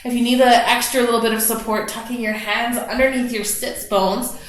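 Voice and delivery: calm guided meditation voice; guided relaxation. Acted. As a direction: ease the class into their breath. Cues hip and back work.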